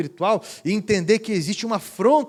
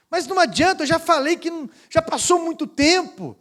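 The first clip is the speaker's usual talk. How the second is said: pleading woman; 10 semitones higher than usual. Retold or imitated. Woman refuses, voiced high.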